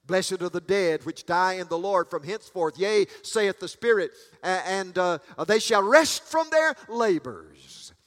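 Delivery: emphatic pulpit reading, building in force; declaimed Bible verse, swelling at the end; scripture proclamation. Real, not acted.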